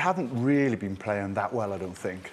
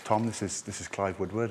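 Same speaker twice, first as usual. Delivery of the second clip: posh voice; 5 dB quieter than usual. Retold or imitated. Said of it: "this incredibly posh voice come on".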